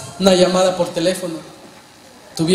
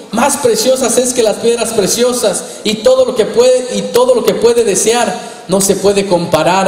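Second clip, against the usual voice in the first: impassioned preaching. Acted. Preaching at full force.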